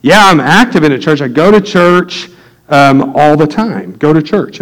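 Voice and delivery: drawn-out, assured churchgoer answer; lightly mock an eager claim of faith; imitating adamant believer. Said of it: "gave me that third type of answer".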